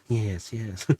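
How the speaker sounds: mad scientist. Acted. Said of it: "starts to sound like a little mad scientist".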